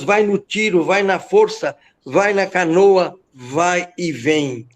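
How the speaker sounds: chanted, rhythmic declaiming; rhythmic poem recitation. Acted. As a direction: ride the beat of the repeated words. (declamação ritmada, quase cantada)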